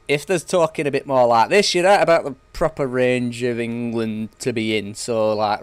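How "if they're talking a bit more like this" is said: Yorkshire accent. Shown as a demonstration. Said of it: "right about the sort of Yorkshire-ish area".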